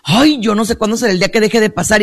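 mildly exasperated nun, retold; mock exasperation. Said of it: "y bueno, enojadísima". (monjita hastiada, imitada)

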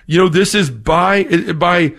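tripping over words with excitement; so eager the words snag and restart; real flustered excitement, stammering on the start of a quote; excited stumbling. Real, not acted. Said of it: "getting so excited I can't even talk".

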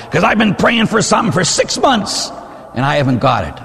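high, whiny grumble of a frustrated churchgoer; lightly voiced petulant complaint; complaining parishioner. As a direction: mimic a sulky believer who didn't get his way. Parishioner complains she's mad at God.

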